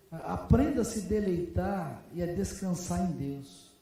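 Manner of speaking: slow, measured sermon cadence, weight on só; slow preaching refrain. Acted. Pastor slowly preaching to his congregation, measured refrain. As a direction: lay each só Deus down slowly.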